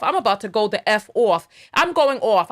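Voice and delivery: heated New York accent boiling over. Real, not acted. Vlogger warning viewers, thick New York accent building. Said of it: "my New York accent is so strong".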